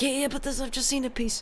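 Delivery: high-pitched, brushing off the call to dinner; eager retort. Retold or imitated. To her partner at the jigsaw, a high, distracted brush-off. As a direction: chirp it, eyes still on the puzzle. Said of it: "And I was just like".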